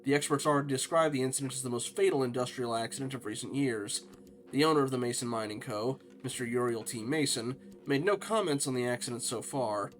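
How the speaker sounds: steady reporter's read; news article read. Acted. Reading the mine disaster article to viewers, newsreader style.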